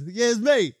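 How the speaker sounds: a small put-on voice saying the name; little voice. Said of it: "'Cause you get that little voice".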